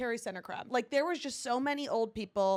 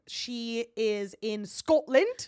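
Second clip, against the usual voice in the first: put-on Scottish accent; much slower than usual. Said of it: "So you do a Scottish accent".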